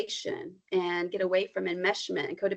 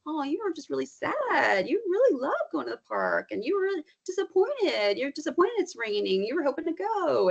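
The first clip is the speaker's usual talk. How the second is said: comforting reflection; 7 semitones higher than usual. Shown as a demonstration.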